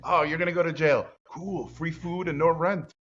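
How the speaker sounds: high, bright-eyed mock cheer; mock cheerful optimist. Optimist shrugging off the world's end, high and cheerful. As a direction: play the guy who loves bad news. Optimist's imagined jail dialogue.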